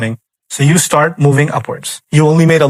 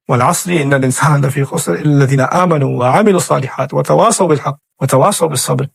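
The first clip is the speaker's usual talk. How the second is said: quick, flowing recitation of the surah; rapid Arabic recitation; Quran recitation; much faster than usual. Acted. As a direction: run the verses together in a recited chant.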